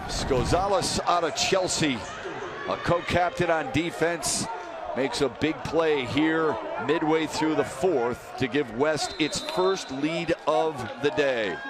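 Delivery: emphatic sportscaster delivery; proud big-moment commentary; play-by-play announcer. Real, not acted. Announces the score after touchdown.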